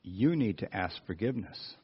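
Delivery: low, soft voice of conscience; Holy Spirit. Retold or imitated. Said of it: "I heard that voice say the same thing".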